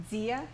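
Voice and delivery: DIA starting on a soft dz sound. Shown as a demonstration. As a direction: soften the D of DIA towards z. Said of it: "it's a soft D sound".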